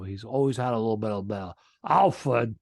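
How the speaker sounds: lightly imitated Rhode Island father; a touch of off-center Rhode Island accent. Hard-of-hearing father calling his son, off-center Rhode Island accent. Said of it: "He's always had this weird kinda, like, you know, off, off center accent".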